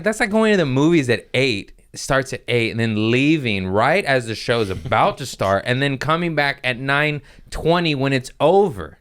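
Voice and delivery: exasperated, high-pitched rant; worked-up, incredulous lecture; retold angry yell. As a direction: spell out the absurdity, re-enacting the scolding. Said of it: "I yelled at him".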